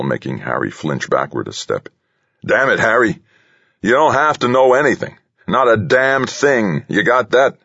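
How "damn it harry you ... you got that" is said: high, heated outburst; angry warning. A narrator's reading. Delaney slams the console and warns Harry, angry warning. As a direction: lay down the law, pitch way up.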